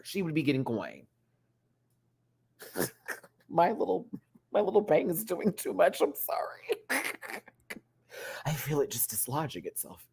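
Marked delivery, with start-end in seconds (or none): 6.0-7.4 a quick breathy whisper; whispered apology. Real, not acted. Sorry to chat for the loose mic, whispered.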